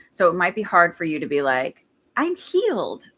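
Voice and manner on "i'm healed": mock bold claim. Quoting a big affirmation.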